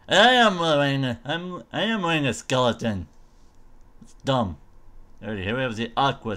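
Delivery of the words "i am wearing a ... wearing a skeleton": loud, high opening that settles down; mock proclamation. Player showing off the skeleton armour, mock proclamation.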